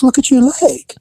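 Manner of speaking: lieutenant whispering to the officer; hushed warning. Retold or imitated. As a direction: whisper it urgently. Lieutenant points out injury.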